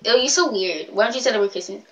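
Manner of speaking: softly imitated mean remark. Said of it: "it just has a mean tone to me".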